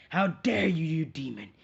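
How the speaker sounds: high, loud outraged shout; angry crowd yell. Retold or imitated. Villagers shouting at Naruto, outraged yell. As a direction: hurl the accusation at him. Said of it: "and everyone's like".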